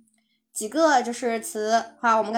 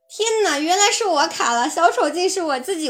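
surprised; 3 semitones higher, 5 dB louder than usual. Real, not acted.

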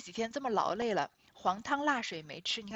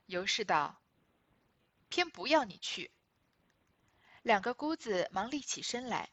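reading the novel aloud. Acted. Reads original novel passage aloud. (朗读古典小说原文)

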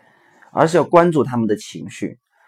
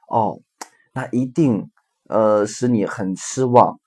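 empathetic parent. Shown as a demonstration. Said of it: "比如说".

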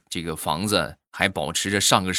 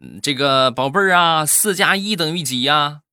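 higher, sweet doting granny; grandma voice; 6 semitones higher, 4 dB louder than usual. Acted. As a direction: coax the grandchild gently. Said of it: "奶奶问孙子".

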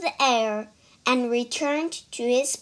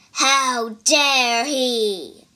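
angry monster; 5 dB louder, much slower than usual. Acted. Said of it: "The monster looked angry".

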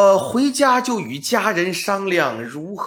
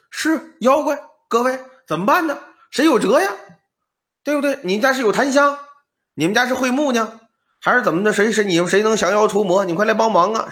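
anxious high plea; 3 semitones higher, faster than usual. Acted. Scholar pleading for help.

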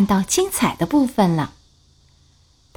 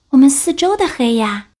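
little bear voice; 5 semitones higher than usual. Acted.

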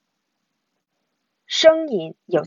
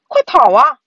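loud, high scream to flee; panicked yell; 4 semitones higher, 10 dB louder than usual. A narrator's reading. Brother urging sister to flee bats, panicked yell. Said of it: "蒂姆尖叫道".

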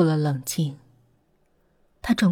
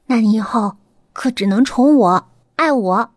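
playful pout; 4 dB louder than usual. Acted. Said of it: "嘟着嘴笑着说".

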